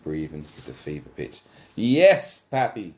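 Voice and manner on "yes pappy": high, loud ecstatic scream. Acted. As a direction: cry it out at fever pitch. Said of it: "Pepper screams".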